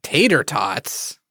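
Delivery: slow, scornful question; disdainful. Acted. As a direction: sneer at the words tater tots. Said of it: "You said that with such disdain".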